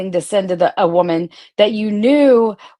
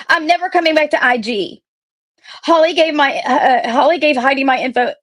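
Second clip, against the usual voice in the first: upset friend's texts; 5 semitones higher than usual. Retold or imitated. Reading angry friend's texts aloud.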